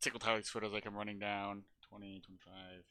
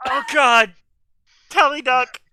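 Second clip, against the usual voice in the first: raised, loud urgent cry; in-character warning shout; 6 semitones higher, 9 dB louder, slower than usual. Acted. Player in character warning Tally of the shot, urgent shout. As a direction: shout a sudden alarm to an ally. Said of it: "That's in character".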